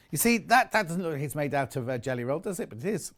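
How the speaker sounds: talking through a mouthful; words round a bite of food; mouth full. Real, not acted. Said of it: "Don't it speak with your mouth full".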